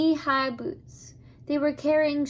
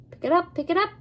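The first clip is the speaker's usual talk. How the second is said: urging the mules on in a lightly Scottish voice; Scottish accent; 6 semitones higher, 4 dB louder, much faster than usual. Acted. Old driver urges mules on, loud Scottish accent. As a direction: Abner hurries the mules along with a higher, louder Scottish call. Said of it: "not very fluent in Scottish accents".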